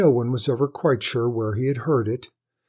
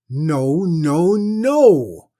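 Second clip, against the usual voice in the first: rising shouts of no, higher and louder; each no climbing to a shriek; angry refusal; 5 semitones higher, 9 dB louder, much slower than usual. Acted. Lady shouting down her husband over the bride.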